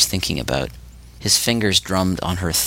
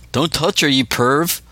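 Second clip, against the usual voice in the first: shouted; 7 semitones higher, slower than usual. A narrator's reading. Spider yelling at Seedy from the kitchen, shouted. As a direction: yell it to stop him. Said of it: "Spider shouted again".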